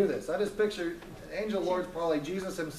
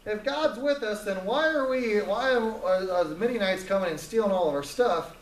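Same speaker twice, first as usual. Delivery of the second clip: indignant complaint; 2 semitones higher than usual. Acted. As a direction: blame God in a huff. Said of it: "He's like".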